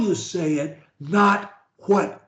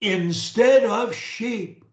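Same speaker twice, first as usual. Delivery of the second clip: slow deliberate speech; 4 semitones higher than usual. Shown as a demonstration. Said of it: "Try and do it the way I do it".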